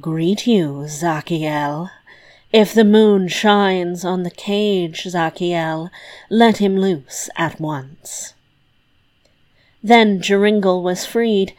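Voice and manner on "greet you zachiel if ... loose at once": slightly hollow, slow witch's incantation; understated hollow voice of an old witch. Acted. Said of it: "said in a hollow voice".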